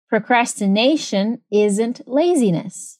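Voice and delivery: slow, evenly spaced teacher's model; measured language-lesson demonstration; repeat-after-me model. Shown as a demonstration. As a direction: say it slowly for learners to repeat. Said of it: "Repete depois de mim pra praticar".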